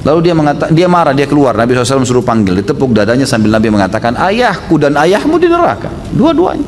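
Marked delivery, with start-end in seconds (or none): 4.2-6.6 slow and much higher, weighty statement; retold grave pronouncement, drawn out high; solemn declaration. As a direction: spell out the hard truth slowly. Preacher voices the Prophet consoling.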